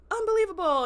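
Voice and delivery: loud, high-pitched exasperation; mock outraged cry. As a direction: play the disgusted dad exclaiming. Dad storms off, acted outrage.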